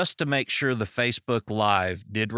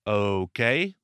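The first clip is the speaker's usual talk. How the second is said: wary agreement. Retold or imitated. Strangers agree warily to odd request.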